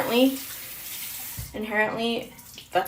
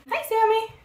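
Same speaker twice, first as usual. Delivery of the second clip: bright greeting; 13 semitones higher than usual. Real, not acted. Greeting a viewer by name.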